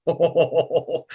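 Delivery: knowing oh. Retold or imitated. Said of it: "that look he gets on his face".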